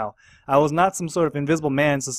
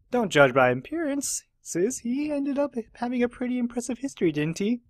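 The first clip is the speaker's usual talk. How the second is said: partner cop voice; 9 semitones higher than usual. Acted. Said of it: "terrible voice acting".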